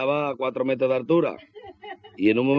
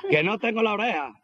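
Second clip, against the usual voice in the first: sorpresa alarmada; 8 semitones higher than usual. Retold or imitated. Descubre que le falta la oreja.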